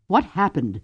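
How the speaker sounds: a touch of a demanding question, firmer. Acted. Cordelia demanding news from the commander, demanding. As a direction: insist on an answer. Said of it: "Cordelia demanded".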